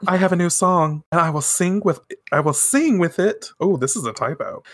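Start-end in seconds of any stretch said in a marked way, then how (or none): 0.1-3.5 slightly raised, performer thanking the fans; lightly acted stage announcement; speaking into microphone. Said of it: "She's speaking into the microphone".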